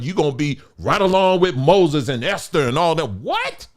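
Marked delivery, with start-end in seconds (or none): 3.1-3.7 high-pitched, softer squeal of disbelief; incredulous. Acted. Preacher scoffing at folks placing themselves beside Moses, incredulous. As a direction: let the question leap right up in pitch. Mock disbelief at others' claims.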